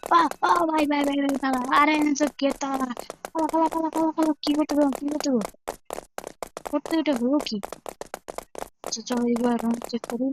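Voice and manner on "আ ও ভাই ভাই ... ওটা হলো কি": panicked. Acted. Chased, trapped by locked gate.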